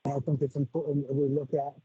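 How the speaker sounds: muffled, like a face buried in fur; muffled mic. Real, not acted. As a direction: voice muffled through a bad mic. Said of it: "you're muffled for some reason".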